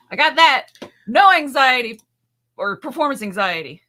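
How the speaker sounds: put-on loud old lady voice; mock old country lady. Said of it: "You sounded like the oldest lady".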